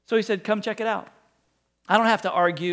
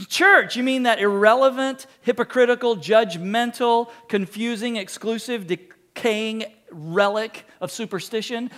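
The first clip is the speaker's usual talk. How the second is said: scornful outsider; 3 dB louder than usual. Retold or imitated.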